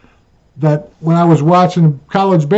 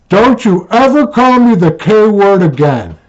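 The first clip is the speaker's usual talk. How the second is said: retold scolding; 6 semitones higher, 3 dB louder than usual. Wife scolding him, retold.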